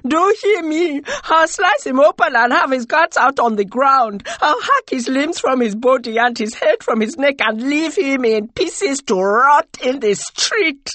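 high, loud, vengeful tirade; frenzied, shrieking rage; wailing cry. A narrator's reading. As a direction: scream the threat for the whole square. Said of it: "wailed again and cried out".

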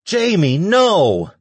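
loud, high anguished scream; high-pitched horrified yell; desperate shout. A narrator's reading. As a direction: cry out to stop him. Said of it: "Lacey shouted".

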